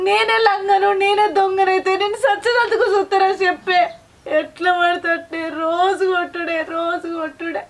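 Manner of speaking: tearful plea, breaking into sobs; crying wife breaking down over beatings. Acted. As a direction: wail out the daily beatings through tears. Wife weeps over daily beatings.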